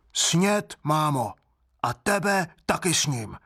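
put-on high childish voice, menacing; a little glutton announcing he'll eat her too; high toddler voice with a gleeful threat; greedy child monster. A narrator's reading. Otesánek threatens to eat mother.

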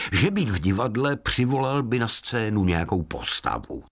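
plain reading voice

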